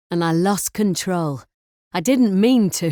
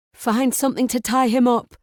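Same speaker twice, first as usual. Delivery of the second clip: ordering; 5 semitones higher, 3 dB louder than usual. A narrator's reading. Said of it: "she orders Harry".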